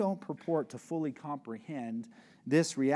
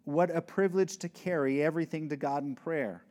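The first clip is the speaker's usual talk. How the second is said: hymn lyric recital. Shown as a demonstration. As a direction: lift the old hymn words with feeling. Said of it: "one of the lines out of the hymns".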